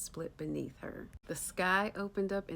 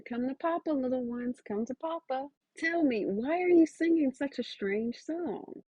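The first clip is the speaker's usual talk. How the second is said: higher, louder calling voice; 6 semitones higher, 6 dB louder than usual. Acted. Father calls to his children in the tree, high loud calling. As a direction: call the little ones over. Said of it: "He calls to the children".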